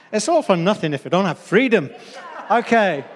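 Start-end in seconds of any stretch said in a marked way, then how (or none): 0.1-1.9 put-on amateur stab at a Scottish accent; attempted Scottish accent. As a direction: have a rough go at Scottish, with force. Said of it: "I can't do the Scottish accent".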